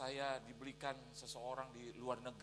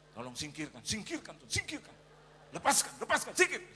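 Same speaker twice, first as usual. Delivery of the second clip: building from usual voice to high, loud commands; mock fervent prayer; 5 semitones higher, 10 dB louder than usual. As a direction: escalate into an exorcist-like plea. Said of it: "Sambil saya berdoa".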